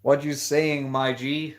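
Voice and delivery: tossing off a casual street greeting in a mock accent; lightly imitated accent of how they speak; imitated slang accent. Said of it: "They speak like this".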